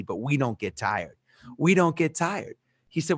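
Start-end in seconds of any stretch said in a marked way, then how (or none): 1.6-2.5 retold proud declaration, lifted above the first; emphatic declaration. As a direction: declare it with conviction. Retold repeat, declared with more conviction.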